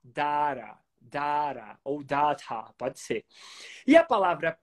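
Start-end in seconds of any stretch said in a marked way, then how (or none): 0.0-1.8 "Data" as DAH-ra, tapped t; A vowel. Shown as a demonstration. Teacher demonstrates data with the A vowel. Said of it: "Agora com a vogal A". 2.0-2.7 "data" as DAH-ta with a clear t; A vowel. Shown as a demonstration. Teacher adds data with A and clear t. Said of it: "Agora com a vogal A".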